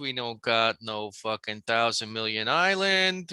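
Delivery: lightly put-on Italian waiter; mock Italian accent. Waiter lists missing dressings, in a lightly put-on Italian accent. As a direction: brush off the order with a hint of Italian.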